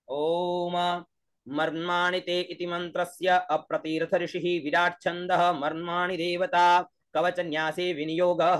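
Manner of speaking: brisk chanted Sanskrit invocation; fast ritual Sanskrit chant; mantra recital. Shown as a demonstration. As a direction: recite the viniyoga like a priest. Formal Sanskrit viniyoga recital.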